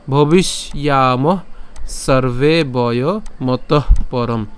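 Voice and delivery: slow, measured shloka chant; Sanskrit verse recitation. Shown as a demonstration. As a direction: draw out each long vowel as you recite.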